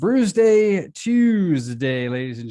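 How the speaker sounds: slow, high and loud, talking around a cork; cork in mouth. Pretend. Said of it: "you gotta do the whole rest of the segment with a cork in your mouth".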